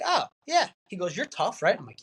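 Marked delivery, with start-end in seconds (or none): 0.0-0.7 much higher, eager agreeing yes. Retold or imitated. Flattered into agreeing by friend. 1.2-1.8 coaxing friend. Retold or imitated. Friend coaxing him with flattery.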